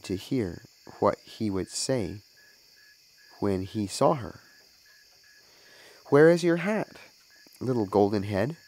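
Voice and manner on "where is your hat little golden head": called out louder and higher; mother calling from the window to her son. A narrator's reading. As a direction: call down to the boy from the window. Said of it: "she called out to him".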